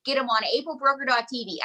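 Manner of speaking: pitchman selling a product; infomercial. Shown as a demonstration. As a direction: sell it like a TV pitchman. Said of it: "I sound like an infomercial".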